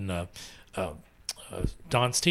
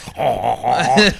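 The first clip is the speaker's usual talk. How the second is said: mock French showman's "haw haw haw"; loud, hammed-up French chuckle; an old-time French crooner's laugh; 8 dB louder than usual. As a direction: parody a stage Frenchman's throaty laugh. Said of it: "sound like a famous French singer".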